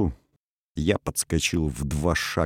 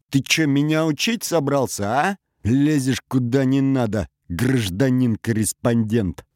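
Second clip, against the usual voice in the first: put-on higher, louder drunken yelling; angry shout; 6 semitones higher, 3 dB louder than usual. Drunk major yells at reporter. (пьяный злой крик, последнее слово медленно)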